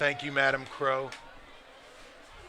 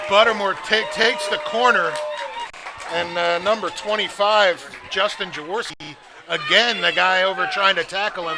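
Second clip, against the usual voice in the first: excited commentary; 3 semitones higher, 5 dB louder than usual. Real, not acted. Replay of big run.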